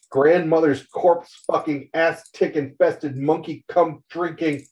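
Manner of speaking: mock rant. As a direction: spit out a string of curses in a fit. Spider freaks out, swearing.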